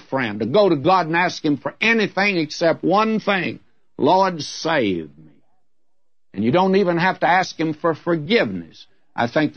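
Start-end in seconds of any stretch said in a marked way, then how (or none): 4.0-5.3 drawn-out, humble plea; half-spoken humble prayer; slow pleading prayer. Acted. Voicing a sinner's plea.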